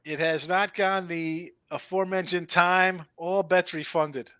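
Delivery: slow formal ruling voice; official announcement. Pretend.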